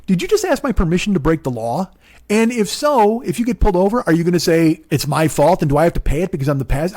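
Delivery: mildly indignant questioning; acting out an annoyed passenger; indignant retelling. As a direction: challenge the driver, mock-mad. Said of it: "part of me was mad".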